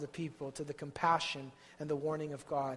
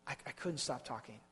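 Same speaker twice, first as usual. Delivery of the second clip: weary confession; 5 dB quieter than usual. Acted. Jeremiah confessing to God, soft and worn out. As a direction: barely get the words out, spent. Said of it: "And then Jeremiah said".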